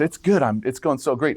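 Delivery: high, bright "It's good", hammed-up churchgoer cheer; fake cheerful. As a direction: overdo the brave face of a struggling monk. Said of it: "And the guy says".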